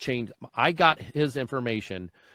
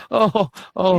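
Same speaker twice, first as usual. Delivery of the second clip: mock gasp of shock, higher and louder; retold shock; 8 semitones higher, 8 dB louder than usual. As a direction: replay your stunned reaction, overdone. Retold shocked reaction to dispatcher.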